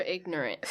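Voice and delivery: "ignorant" as IG-nuh-runt; full three-syllable "ignorant". Shown as a demonstration. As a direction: keep the extra syllable in "ignorant". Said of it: "'cause it's extra".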